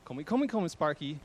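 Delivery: calling the dog eagerly in grandma's voice. Retold or imitated. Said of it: "she would always call to Sparky".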